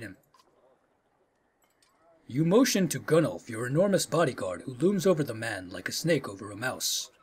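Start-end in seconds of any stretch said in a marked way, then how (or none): 2.3-7.1 low, soft storyteller's reading, sinking at the end; story narration. A narrator's reading. Player reading the bodyguard's looming to viewers, story narration. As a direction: narrate it quietly, letting it sink. Reads game narration aloud.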